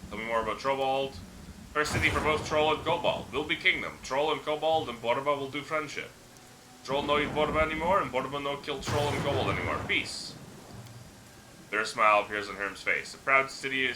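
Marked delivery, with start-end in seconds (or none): 1.7-10.3 lightly voiced simple-minded troll, pitched a bit up; a hint of a friendly, dim troll boasting; rough troll voice. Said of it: "The troll's voice is rough and gravelly".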